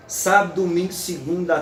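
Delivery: Sábado squeezed to sabd, domingo running into segunda; elided syllable. Shown as a demonstration. Lecturer demonstrating the poetic elision, swallowed syllable. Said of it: "É a elisão poética".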